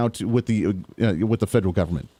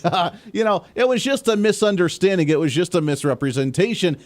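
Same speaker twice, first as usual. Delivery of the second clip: higher-pitched, laughing-it-off excuse; mock brush-off; 5 semitones higher than usual. Host mimics someone excusing big lies, mock brush-off. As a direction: make light of it, mockingly.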